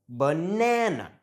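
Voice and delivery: Banana as buh-NAN-uh, middle stretched; Banana, stress on the middle syllable; schwa demo. Shown as a demonstration. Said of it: "we have two schwa sounds".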